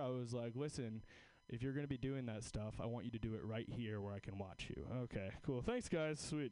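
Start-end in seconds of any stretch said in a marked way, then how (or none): 0.5-4.9 mock mom. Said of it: "And I turned into her".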